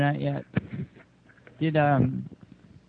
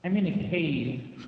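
cave echo; slower than usual. Real, not acted. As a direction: voice echoing like inside a cave. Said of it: "How do you do that?".

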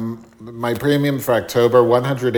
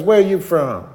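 nosy cashier; 7 semitones higher than usual. Retold or imitated. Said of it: "She goes".

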